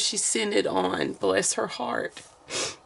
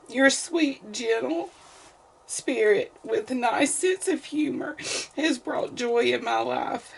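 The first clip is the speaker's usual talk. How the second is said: happy crying; 2 semitones higher than usual. Real, not acted. Reading a kind letter, tearing up.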